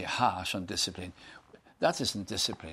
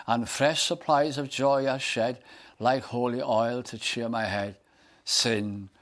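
a lightly declaimed hymn verse, rising; recited hymn; 4 dB louder than usual. Acted. Preacher reciting a hymn to the congregation, fervent. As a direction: proclaim the hymn lines with fervour.

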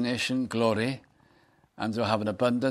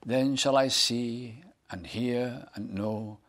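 a lightly declaimed hymn verse, rising; recited hymn; 4 dB louder than usual. Acted. Preacher reciting a hymn to the congregation, fervent. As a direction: proclaim the hymn lines with fervour.

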